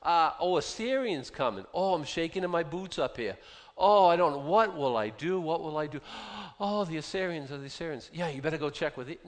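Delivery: high, hammed-up mock alarm from God; sarcastic God. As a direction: play God feigning panic, dripping sarcasm. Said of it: "And God's saying".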